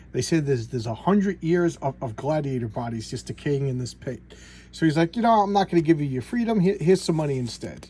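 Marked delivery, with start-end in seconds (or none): 5.1-7.9 higher, fast, dismissive emperor; smug emperor. Retold or imitated. Emperor refuses the gladiator his freedom, offering cash. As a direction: brush the gladiator off breezily. Emperor voiced in retold comic.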